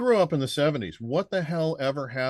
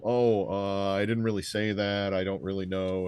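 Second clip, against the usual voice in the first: mumbly mock excuse, imitating evasive witnesses; mock backpedaling; 3 semitones lower than usual. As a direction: play at backing down, low and hesitant. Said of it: "they kinda do this whole".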